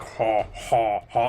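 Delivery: flat mechanical ha ha ha; robotic laugh. Acted.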